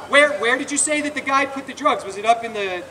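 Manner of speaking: high, carrying mock question; said real loudly. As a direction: keep it loud and public, a show for onlookers. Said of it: "he said real loudly".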